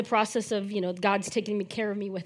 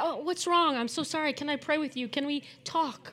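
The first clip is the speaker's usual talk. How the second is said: soft, caring check-in; acted tender, softer sympathy; sympathetic concern; 5 dB quieter than usual. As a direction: voice gentle concern for someone upset. Acting out comforting a crying person.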